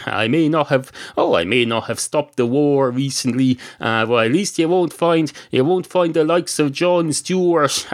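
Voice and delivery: grumbling barman. Acted. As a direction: moan on and on about the recession like a fed-up barman. Barman defends his diplomacy.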